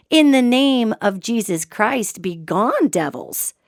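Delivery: slow, drawn-out mock exorcism, falling at the end; retorted exorcism command. Speaker answers the preacher right back, in a slow retold command. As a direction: throw the command back deliberately. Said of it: "I said right back to him".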